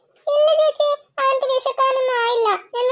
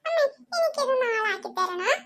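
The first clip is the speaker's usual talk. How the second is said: laughing mock whine; 4 dB quieter than usual. Laughing fake-cry begging.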